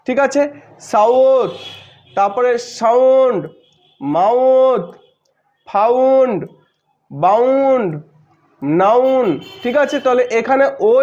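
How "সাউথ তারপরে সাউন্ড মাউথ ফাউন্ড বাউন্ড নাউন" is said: isolated words with the "আও" glide drawn out; word-by-word drill of the ow glide in "সাউথ"; ow pronunciation demo. Shown as a demonstration. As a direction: stretch the ow in "মাউথ", "ফাউন্ড", "নাউন". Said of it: "এর উচ্চারণ হচ্ছে".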